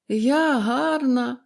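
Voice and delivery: bitter irony. A narrator's reading. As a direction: draw out the question in disbelief. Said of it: "з гіркою іронією перепитала". (гірка іронія)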